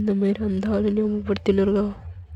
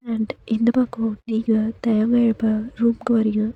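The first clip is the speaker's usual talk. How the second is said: whispered narration. A narrator's reading. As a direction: tell it in a hush, close to the ear.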